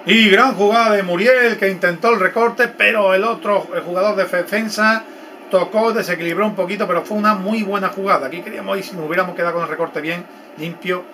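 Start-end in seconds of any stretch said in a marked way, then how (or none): 0.1-8.3 excited. Real, not acted. Excited replay commentary.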